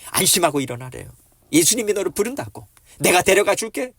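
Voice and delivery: loud, rising eager announcement; excited encouragement. Acted. Messengers calling the blind man to Jesus, excited encouragement. Messengers bring good news to beggar.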